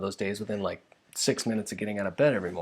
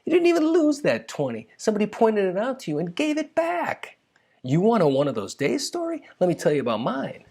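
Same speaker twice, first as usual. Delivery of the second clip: much higher, louder, sarcastic scoffing voice; mock indignant inner rant; 10 semitones higher, 4 dB louder than usual. Ranting inwardly at Careless Carol, high mocking scoff. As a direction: scoff at her in your head, pitched way up. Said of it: "I started to think".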